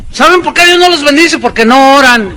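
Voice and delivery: más agudo y fuerte, tono de reproche; predicador acusador. Retold or imitated. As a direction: imitar al predicador que regaña. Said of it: "un evangelio de obras". (parodia aguda de predicador que acusa a los hermanos)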